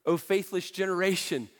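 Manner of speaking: understated exasperated rebuke; mildly frustrated. Acted. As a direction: let a little frustration into the line. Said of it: "a little frustrated here".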